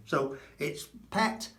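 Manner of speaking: "pet" with a short clipped e. Shown as a demonstration. Teacher repeats the right Spanish e. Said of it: "not Pete".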